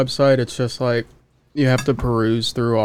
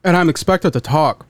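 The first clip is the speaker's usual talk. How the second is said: talking through a burning mouth; words strained by hot sauce; mouth burning from spicy food. Real, not acted. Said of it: "talking burns like a motherfucker".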